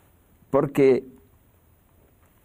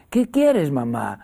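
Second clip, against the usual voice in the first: put-on sleepy child; 4 dB louder, slower than usual. Niño medio dormido.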